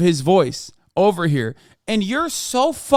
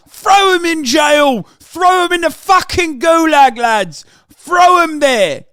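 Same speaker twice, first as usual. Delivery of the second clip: mock rallying shout; 5 semitones higher than usual. Real, not acted. Mock bloodthirsty demand.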